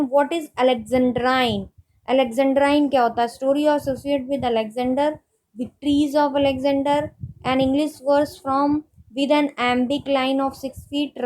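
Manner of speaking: reads the question word by word, very slowly; slow dictation reading. Acted. Teacher reading a quiz question to students, slow dictation pace. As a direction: spell out each option slowly for note-taking.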